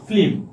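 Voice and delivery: ফিল্ম said as filim, an i slipped between l and m; folk pronunciation. Shown as a demonstration. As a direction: break ফিল্ম into fi-lim. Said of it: "ফিল্মকে আমরা কি লিখলাম?".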